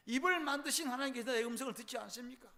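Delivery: a hint of wailing; anguished cry. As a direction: cry out to God in grief. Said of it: "통곡하고".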